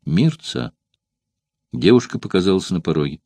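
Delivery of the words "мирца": casual calm call. A narrator's reading. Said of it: "непринуждённо и спокойно своим обычным голосом позвала".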